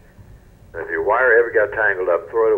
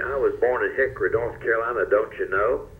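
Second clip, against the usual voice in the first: southern accent; 3 semitones higher than usual. Shown as a demonstration. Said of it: "get rid of my southern accent".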